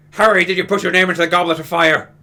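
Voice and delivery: shouted accusation, anything but calm; mock furious shout. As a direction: yell it, ironically not calm at all. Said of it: "Dumbledore said calmly".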